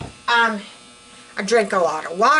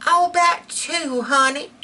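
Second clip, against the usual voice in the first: put-on old lady reply; 5 semitones higher than usual. Old lady answers in dialogue.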